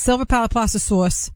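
"Sauce" said as New York "sawss"; the right way. Shown as a demonstration. Co-host showing the host how to say it, corrective pronunciation. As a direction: correct him with a rounded "Sauce", like "sawrss". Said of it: "That's not even the right way".

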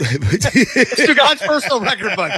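laughing quip. Real, not acted.

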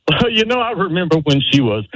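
high, laughing voice that shakes off the tears. Shown as a demonstration. Caller showing how to laugh through the speech. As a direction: turn the crack into a chuckle. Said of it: "you turn that into a laugh".

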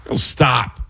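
halting stop-and-go phrasing with long pauses; lightly voiced Walken, stopping mid-sentence; Christopher Walken impression. Shown as a demonstration. Comedian showing off Walken's stop-and-go rhythm. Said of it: "Christopher Walken has got a great stop and go kind of voice".

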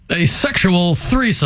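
slow, deliberate news anchor read; newscaster voice. Retold or imitated. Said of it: "They never lose the newscaster voice".

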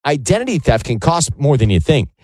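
measured radio sponsor read. Real, not acted. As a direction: deliver it as a polished host-read ad. Host reads a sponsor ad.

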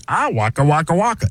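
goofy bear puppet voice; cheerful Muppet bear voice; Fozzie Bear. Acted. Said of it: "And then Fozzie Bear".

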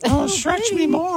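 mock moaning voice. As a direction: camp it up like a breathy moan, drawn out. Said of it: "Did you affect a voice?".

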